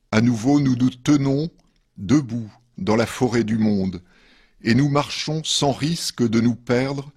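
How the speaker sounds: measured poetry reading with pauses between verses; poem reading. Acted. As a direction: read each verse line apart, letting it settle. Reads third poem after musical break. (lecture de poème posée)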